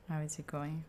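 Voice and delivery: softly through a mouthful of food; wolfing down food. Real, not acted. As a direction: talk while chewing, quietly. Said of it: "Sorry, I'm starving, so I'm not gonna stop".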